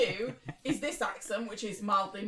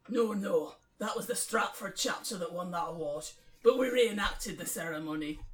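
put-on Scottish accent, a little lower; Dean; 5 semitones lower, 4 dB quieter than usual. Newcomer explains his old branch's record, Scottish accent. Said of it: "Dean Scottish".

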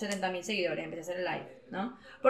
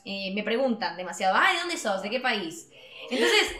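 a light Argentine accent, mostly her own voice. Shown as a demonstration. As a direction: tell it the way a porteña would, lightly. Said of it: "les cuento un poco en argentino".

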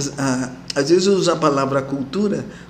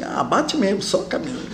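laughing encouragement; 3 semitones higher, 4 dB quieter than usual. Retold or imitated. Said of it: "Eu dizia assim".

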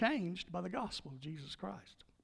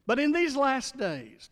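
slow, much higher and louder; preaching emphasis; 8 semitones higher, 6 dB louder, slower than usual. Acted. Preacher stressing the last days to his congregation, slow and loud. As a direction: proclaim it slowly from the pulpit.

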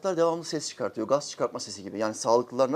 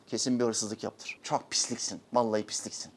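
mocking gossip; 4 semitones lower, 8 dB quieter than usual. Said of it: "diğer arkadaşına şöyle diyorsun".

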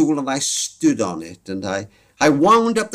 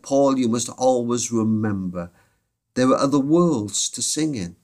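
gentle comfort; 2 semitones lower than usual. Retold or imitated. Operator comforts grieving boy.

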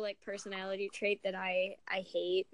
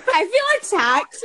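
high, loud mocking echo; mocking quote; 10 semitones higher, 14 dB louder than usual. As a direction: mimic them in a mocking tone. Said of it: "says the asshole".

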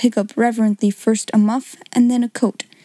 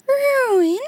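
much higher, breathless "Ruin?"; gasped in shock. Acted. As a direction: choke the word out in dismay. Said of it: "she gasped out".

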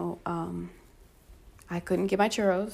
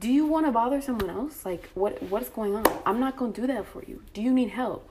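higher-pitched, irritated questioning; retold rudeness; 4 semitones higher than usual. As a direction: challenge him with rude disbelief. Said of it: "I'm literally getting, like, rude".

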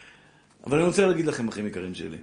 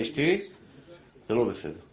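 calm reproach; 6 semitones lower, 4 dB quieter than usual. Pretend. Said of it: "מרגיע".

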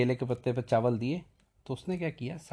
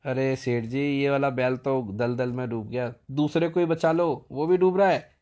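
urgent plea; 6 dB louder than usual. Retold or imitated. Servant pleads to save ox.

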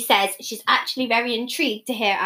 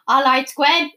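put-on Welsh accent; 5 dB louder, slower than usual. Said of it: "we'll go".

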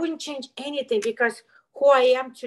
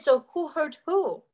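therapist's pointed question; 3 semitones higher than usual. Retold or imitated. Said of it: "she asked".

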